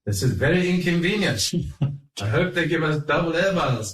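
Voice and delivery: high-pitched Jewish New York complaint; Jewish New York accent. Retold or imitated. Passenger grumbles as plane falls, Jewish New York accent. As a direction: imitate a put-out New Yorker with a Jewish accent. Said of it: "in his Jewish New York accent".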